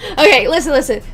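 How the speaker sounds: robotic voice, throat rubbed. Acted. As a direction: stiff formal robot voice. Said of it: "make my voice sound more robotic".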